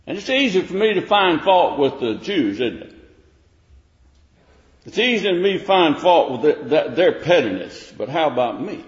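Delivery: high, loud searching questions; preaching at full force. Acted. Preacher challenging listeners, loud rising sermon voice. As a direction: press the questions on the congregation.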